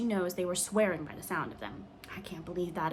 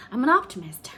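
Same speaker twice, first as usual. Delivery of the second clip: a hushed confiding whisper; 4 semitones higher, 9 dB louder than usual. A narrator's reading. Catherine to the girls, whispering a secret. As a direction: let them in on a secret.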